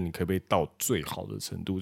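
ordinary delivery

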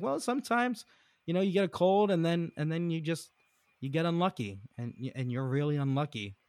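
high, sing-song doctor impression. Quoting the doctor's words.

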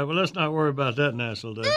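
quick, low, laughing brush-off. Real, not acted. Host laughs off the compote mixup and moves on. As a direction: hurry past it with a laugh.

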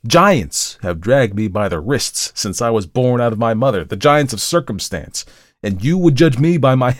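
loud, high-pitched, indignant pleading; impassioned plea. A narrator's reading. Markheim begs the visitor to look within, impassioned plea. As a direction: build urgent questions, begging to be understood.

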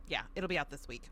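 breathy whispered aside; whispering. Real, not acted. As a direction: drop to a whisper. Aside about the release date.

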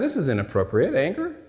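mildly indignant retold protest; mock self-defence. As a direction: quote yourself objecting, a touch defensive. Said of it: "I defend myself because I said".

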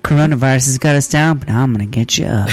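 smooth late-night crooning, slowly; slow jam voice. Pretend. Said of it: "slow jam voice right now".

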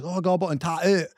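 lightly put-on Australian accent; Aussie imitation with a twisted "tattoo"; mock Australian accent. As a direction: imitate an Australian audience member. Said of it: "Australians and tattoos".

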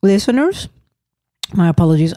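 talking with a mouthful; words through a bite of food; mouth full. Real, not acted. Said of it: "I'm eating".

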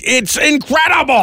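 high, slow delighted shout; excited shout. Real, not acted. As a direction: shout out in amazement. Amazed by the AI's text.

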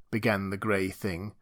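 ordinary delivery

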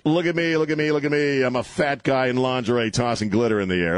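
hammed-up look-at-me voice; mock show-off. Mocking the graduate's show-off plea for attention.

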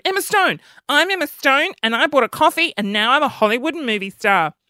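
a hint of a gushing discovered starlet; mock starlet story. Host mocking the discovered-on-the-street story, light mock gush. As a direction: gush it like a lucky overnight star. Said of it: "you know those stories?".

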